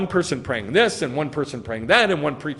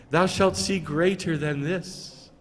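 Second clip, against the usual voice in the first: slow, solemn scriptural parody; mock pious. Preacher parodying a reverent Yeshua to Nathanael, mock pious. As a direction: intone it slowly as a mock blessing. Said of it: "He's not going".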